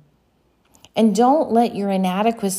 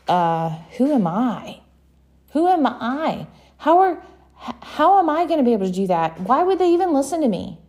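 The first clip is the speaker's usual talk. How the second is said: frightened Moses; 3 semitones higher, faster than usual. Acted. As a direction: panic rising in his voice. Moses voiced, fearful questions.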